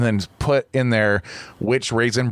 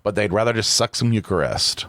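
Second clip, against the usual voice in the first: stoned. Real, not acted. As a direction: talk like the edible just hit. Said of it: "this edible is hitting so".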